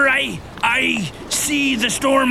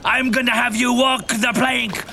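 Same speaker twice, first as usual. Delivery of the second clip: pirate voice. Acted. Captain Peter scolds Little John in pirate voice. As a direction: threaten the first mate like a hammy pirate. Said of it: "why are you talking like a pirate?".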